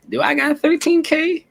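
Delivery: slow, high-pitched questioning of oneself; reenacted high, incredulous self-check; retold doubt. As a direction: pitch it way up and ask it slowly. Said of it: "I was just like".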